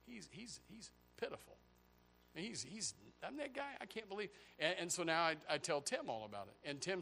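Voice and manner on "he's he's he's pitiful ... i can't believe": mock gossip. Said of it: "I said".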